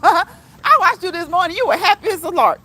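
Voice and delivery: high, loud, laughing through the words; tickled, breaking into a big loud laugh; laughing delightedly. Real, not acted. Streamer telling a viewer she watched them, laughing hard.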